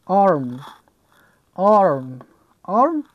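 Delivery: "Arm" with a long open back vowel. Shown as a demonstration. Teacher giving an example of the آ sound, "Arm" with back vowel. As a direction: model "Arm" slowly apart, vowel held as aw.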